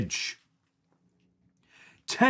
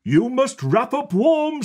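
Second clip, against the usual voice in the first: a hint of a caring mum, higher; lightly voiced mother; 10 semitones higher than usual. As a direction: voice the farmer mum gently. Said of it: "says Missus Boot".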